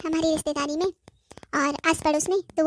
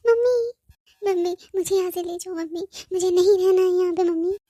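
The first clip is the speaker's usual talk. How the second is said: crying. Acted. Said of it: "तू रो क्यों रही है?".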